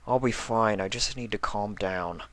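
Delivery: quietly trying to calm down; mild hushed. A narrator's reading. Spike calming himself.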